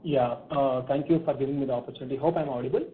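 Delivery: muffled headset audio; speaking away from the mic. Real, not acted. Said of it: "but slightly muffled".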